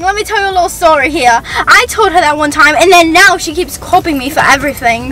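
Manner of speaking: put-on British accent, telling a tale. Defending herself after being roasted, British accent. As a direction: explain yourself in a British accent. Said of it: "talk with that accent".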